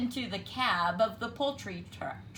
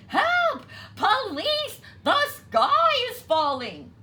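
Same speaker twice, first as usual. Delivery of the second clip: very high, loud cry; crying for help; 10 dB louder than usual. A narrator's reading. Birds crying for help, loud and high. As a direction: scream for the police.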